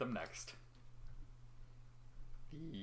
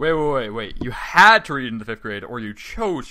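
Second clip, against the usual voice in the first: louder, urgent wait wait; loud interruption; 20 dB louder than usual. Real, not acted. Host stops cohost in disbelief, loud shout. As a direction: cut him off loudly in disbelief.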